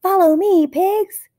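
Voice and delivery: high, loud brave leader voice; heroic leader call. A narrator's reading. Fluffy leading pigs out of cave, high heroic call. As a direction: lead the pigs like a bold captain. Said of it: "said Fluffy the Explorer".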